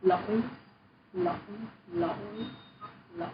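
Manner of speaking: each "Lỗi" going down, then up; southern dipping tone. Shown as a demonstration. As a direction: model "Lỗi" with a southern falling-rising tone. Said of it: "you need to go down and up".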